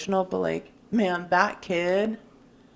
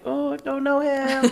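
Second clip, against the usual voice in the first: slow, higher, drawn-out snooty disowning; embarrassed denial; 7 semitones higher, slower than usual. Retold or imitated. Sister recalling disowning her crying brother, slow snooty denial. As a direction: pretend not to know him. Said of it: "I'm like".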